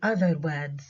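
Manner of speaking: other stressed, words reduced. Shown as a demonstration. Teacher stressing other for students. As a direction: lean on other, not on words. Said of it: "كلمة words في المرة الأولى عليها stress".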